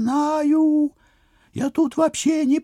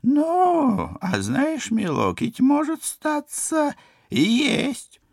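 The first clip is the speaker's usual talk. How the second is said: put-on old woman voice; 3 semitones lower, slower than usual.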